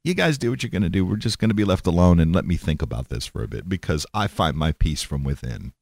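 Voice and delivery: mock serene Buddhist, sinking low; lightly acted shrug-it-off monk; laid-back Buddhist. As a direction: settle down into a low, unbothered murmur. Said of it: "Because the Buddhists are like".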